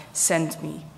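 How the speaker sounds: soft breathy whisper. Acted. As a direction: breathe the words out. Quoted prophet's answer, unvoiced.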